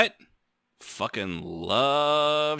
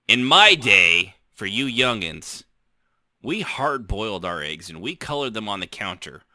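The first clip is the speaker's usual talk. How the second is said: put-on old-timer voice; 3 semitones lower, 4 dB louder than usual. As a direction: reminisce like a grandpa. Old-timer lecturing youngins.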